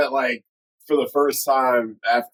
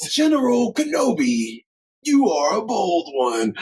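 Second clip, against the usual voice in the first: high raspy mock Grievous, slow; mock cyborg general rasp; Grievous impression; 6 semitones higher than usual. Quoting Grievous line.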